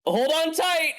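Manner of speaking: high-pitched called-out warning; yell. Acted. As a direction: call it out high, stretching the words. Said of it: "So I'm gonna yell".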